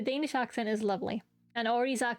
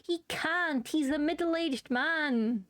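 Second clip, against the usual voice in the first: higher, drawn-out mock objection; mock protest; 4 semitones higher, slower than usual. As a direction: plead his case in playful protest. Mock protest on Carl's behalf.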